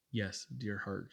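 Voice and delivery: put-on the angel quietly reassuring a sick boy; full assurance. A narrator's reading. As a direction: soothe him with total certainty. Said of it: "she said with the fullest assurance".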